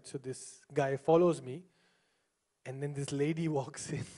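ordinary talk

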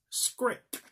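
slow Norwegian accent on Skrik. Shown as a demonstration. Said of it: "That was a Norwegian accent".

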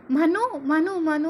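calling his name repeatedly. A narrator's reading. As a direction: shout after him as he leaves. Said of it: "అని ఆర్చుకుంటూ వెనకాలే వస్తుంది దియా".

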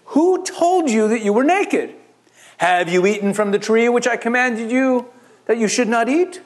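lightly voiced God questioning Adam; a stern God.

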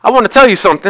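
lightly mimicked Georgia accent; playful impression of a Georgian accent. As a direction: imitate her Southern Georgia accent in retelling. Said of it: "in her best Georgian accent".

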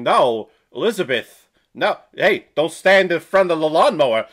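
loud, mock Walken-Jersey warning; Walken-Jersey accent, firm and loud. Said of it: "like a discount Christopher Walken".

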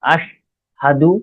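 আশহাদু very slowly, "ash", pause, "hadu"; pronunciation demo. Shown as a demonstration. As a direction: join alif and shin into one "ash" in আশহাদু. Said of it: "আলিফ আর শিনকে একসঙ্গে করে".

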